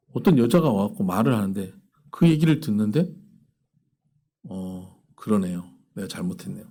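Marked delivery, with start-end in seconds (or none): 4.5-6.7 David humbly admitting he was wrong, softly; meek concession. Retold or imitated. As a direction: back down quietly.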